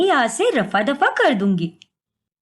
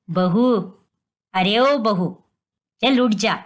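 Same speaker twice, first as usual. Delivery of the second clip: mother-in-law calling; 5 semitones lower than usual. Acted. Mother-in-law wakes daughter-in-law.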